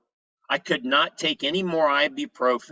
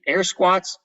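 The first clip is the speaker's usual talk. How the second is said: incredulous; 5 semitones higher, 4 dB louder than usual. Retold or imitated. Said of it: "I'm like".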